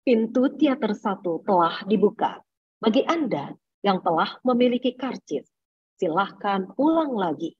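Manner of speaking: slow, measured public-address delivery; cinema announcement. Acted. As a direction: announce formally, phrase by phrase, unhurried. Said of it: "Terus juga pernah mendengarkan di bioskop".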